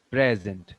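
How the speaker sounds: "present" said PREZ-ent, front-stressed; stress on first syllable. Shown as a demonstration. Teacher showing where the stress falls, first-syllable stress on "present". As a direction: put the weight on PRE in "present". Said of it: "the stress will be here".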